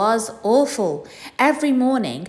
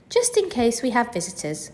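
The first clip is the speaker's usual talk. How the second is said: stern; 5 semitones higher than usual. Acted. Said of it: "she said sternly".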